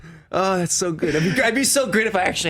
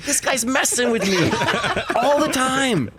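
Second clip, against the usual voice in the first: laughing; 9 semitones higher, slower than usual. Retold or imitated. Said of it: "I'm like".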